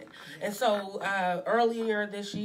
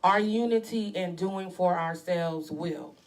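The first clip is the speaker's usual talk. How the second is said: slow, emphatic read-aloud; deliberate reading; 4 dB louder, slower than usual. Real, not acted. Co-host rereading a post for listeners, slow and deliberate. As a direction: weigh each phrase of the statement.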